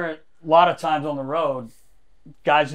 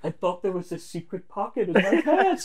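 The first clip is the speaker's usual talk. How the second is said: lightly voiced befuddled buddy, pitched up; confused teammate; 4 semitones higher, 3 dB quieter than usual. Teammate explains himself to everyone, mock-confused. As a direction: imitate a baffled explanation.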